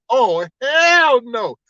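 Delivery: very drawn-out mock outrage; indignant refusal. Customer retelling the teller's rudeness, mock indignant. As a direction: stretch HELL long in playful disbelief. Repeats outraged reaction, laughing.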